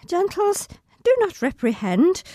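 high, strained recitation; reciting through pain. Acted. Injured child actress reciting Puck's final speech. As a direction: push the lines out while hurting.

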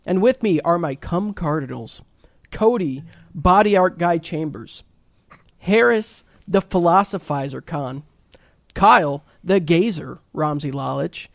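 grand show host introduction; announcer voice. Acted.

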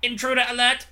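shrill, loud, high alien alarm cry; alarm shout. Retold or imitated. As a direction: scream it like a siren. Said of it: "the little aliens would come into the room screaming".

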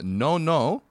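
slightly put-on French accent; mock French accent. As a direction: read it as a mild mock Frenchman. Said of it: "written down the accent here".

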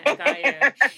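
American-accented "I got you". Shown as a demonstration. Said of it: "It works much better in your accent".

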